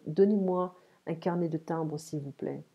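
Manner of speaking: courteous shop request; respectful request. Shown as a demonstration. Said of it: "Ok, it's more respectful".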